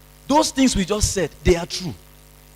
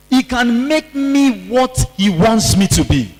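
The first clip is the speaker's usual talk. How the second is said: slow, earnest declaration, building louder; like you mean it; 4 dB louder than usual. Shown as a demonstration. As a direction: proclaim each line with conviction, rising to the end. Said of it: "Please say it like you mean it".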